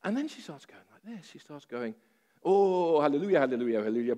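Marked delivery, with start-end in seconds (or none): 2.4-4.2 higher, much louder hallelujahs like an ecstatic Russian granny; imitating a joyful granny. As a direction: call out the hallelujahs as the overjoyed babushka. Imitating the healed granny's outburst.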